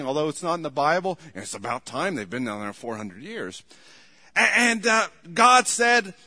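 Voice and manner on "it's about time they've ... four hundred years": much lower and softer grumble; under his breath. Retold or imitated. Preacher imagining Moses muttering to God, softly under breath. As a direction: mutter it aside to yourself. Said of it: "under his breath".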